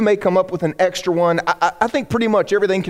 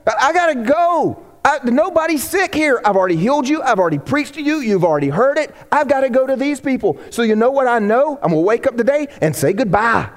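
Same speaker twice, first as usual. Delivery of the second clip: voicing Jesus, higher and determined; a hint of Jesus set on moving on; resolute Jesus; 4 semitones higher than usual. Jesus telling the crowd he must go.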